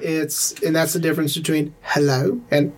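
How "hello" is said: refined upper-class London accent. Shown as a demonstration. Showing a co-host the London difference, upper London accent. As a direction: say it in proper upper London English. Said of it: "an upper London accent".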